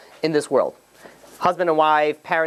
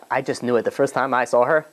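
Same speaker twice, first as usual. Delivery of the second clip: put-on Southern accent; 5 semitones lower than usual. Teacher mimicking people who claim love at first sight, Southern accent. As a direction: slip into a low Southern accent. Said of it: "I don't know why they're a Southern".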